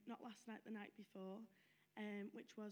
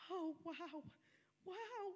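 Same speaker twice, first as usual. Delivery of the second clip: imitating awe, higher; gran's awe; 6 semitones higher, slower than usual. Dying gran seeing something with eyes closed, imitated in hushed awe. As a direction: breathe the wonder out.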